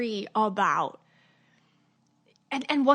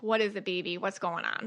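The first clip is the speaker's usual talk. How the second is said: put-on soft and quieter, coaxing yourself like a hurt child; gentle self-talk; 3 semitones lower, 4 dB quieter than usual. Shown as a demonstration. Talking to herself after symptoms flare, gently soothing. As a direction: ease into it, tender and low-key. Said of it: "That's how I talk to myself".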